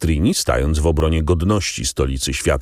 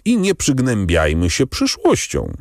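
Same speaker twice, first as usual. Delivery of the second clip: a higher, cheerful call to his friend; exclaiming; 7 semitones higher than usual. A narrator's reading. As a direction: urge him brightly to enjoy the moment. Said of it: "zawołał Albert". (wesołe, wyższe wołanie)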